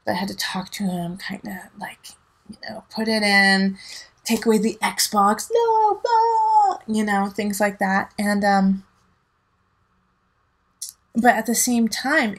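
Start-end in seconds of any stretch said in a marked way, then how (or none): 5.5-6.8 high loud mock no; mock scolding outburst. Mock parent snatching the Xbox, loud. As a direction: bark it like a cartoon parent.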